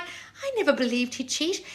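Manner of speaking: soft, slow, high mock quote; mocking imitation of a naive client; mimicking a follower. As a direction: parrot them in a small slow voice. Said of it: "you're like".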